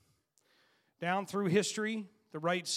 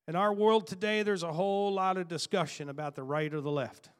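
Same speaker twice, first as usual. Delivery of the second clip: preacher launching into the topic; preaching; 3 dB louder than usual. Acted. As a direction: open the sermon with full force. Preaching opener, loud.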